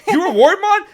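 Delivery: high, loud cry of disbelief; incredulous. Retold or imitated. Fan still not believing voice actor, loudly incredulous. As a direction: blurt it out, voice leaping up.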